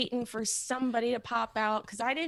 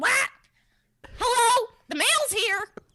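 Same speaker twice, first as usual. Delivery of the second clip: high talking pet macaw voice; 11 semitones higher, 8 dB louder than usual. Retelling meeting a neighbor's talking macaw: imitating Rocco the macaw. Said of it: "And he said".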